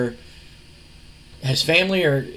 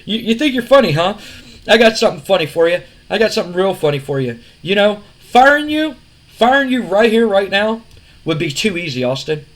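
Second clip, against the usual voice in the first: smug boss voice; 4 semitones higher, 4 dB louder than usual. Retold or imitated. Retelling promo, boss threatening Austin.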